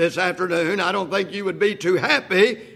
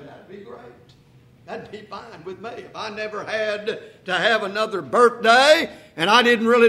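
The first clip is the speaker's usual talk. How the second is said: tempted listener. Retold or imitated. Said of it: "you might be tempted to say".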